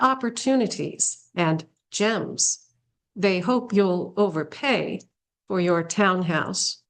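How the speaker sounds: measured reading of a short poem; poetry reading. Acted. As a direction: read the verse with a pause after each phrase. Reads a poem aloud.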